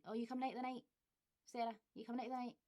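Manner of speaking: Glasgow "the night" for tonight; Glaswegian. Shown as a demonstration. Inviting a friend out, in Glaswegian. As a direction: ask it like a Glasgow pal. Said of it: "a lot of people would just say "the night".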